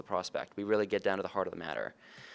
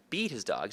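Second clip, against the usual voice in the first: "beat" hit hard, the rest trailing; stress on BEAT. Shown as a demonstration. Sales trainer adding another possible meaning, stress on "beat". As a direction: punch the first word, "beat". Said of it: "depending on which word I emphasize".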